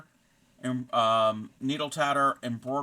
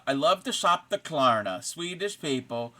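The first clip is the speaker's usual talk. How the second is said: mock Swedish accent; 5 dB louder than usual. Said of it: "it's a drag queen thing".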